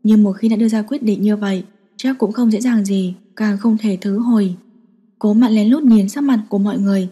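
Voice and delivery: usual speaking voice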